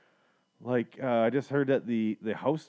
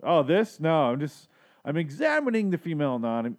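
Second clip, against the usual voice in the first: higher, louder fake casual cover-up; feigned innocence, pitched up; mock-innocent excuse; 5 semitones higher, 3 dB louder than usual. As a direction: bluff like you've just been caught. Pretends innocence when walked in on.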